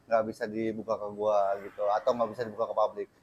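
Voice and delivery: talking while smoking a cigarette; cigarette in mouth. Real, not acted. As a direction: speak around a lit cigarette. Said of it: "sambil ngerokok biar lebih relax".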